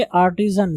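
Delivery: आर्टिजन with a clear z sound in the middle; correct pronunciation. Shown as a demonstration. Teacher correcting students, आर्टिजन with a clear z. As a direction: say आर्टिजन with a buzzing z, not j. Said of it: "हम लोग गलत पढ़ते हैं".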